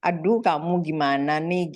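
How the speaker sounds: lightly imitated easygoing friendly ribbing. Gently ribbing a friend who made a mistake, friendly. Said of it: "dengan nada seperti teman".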